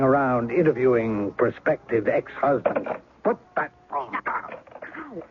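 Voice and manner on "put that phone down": slow, high, menacing order; menacing command. Acted. Intruder orders Hillary off the phone, slow and menacing. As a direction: warn her off the phone, slowly.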